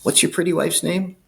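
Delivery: menacing cop. Retold or imitated. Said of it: "And he goes".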